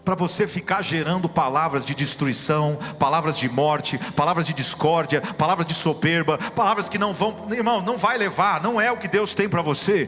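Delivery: loud, rising pulpit proclamation; preaching at full force. Acted. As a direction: drive it home like a revival preacher. Preaching climax, louder. (pregação inflamada e em voz alta)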